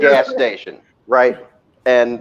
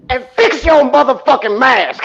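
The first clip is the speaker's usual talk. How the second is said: mock scolding; 7 semitones higher than usual. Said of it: "He's like".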